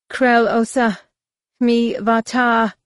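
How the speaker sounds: high, loud, slow alien voice; harsh alien voice. Acted. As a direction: growl the alien words out slowly. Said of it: "the harsh alien voice".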